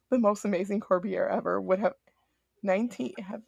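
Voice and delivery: choppy audio that keeps dropping out; audio cutting out. Real, not acted. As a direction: uneven volume, words breaking up. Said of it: "Your audio's cutting".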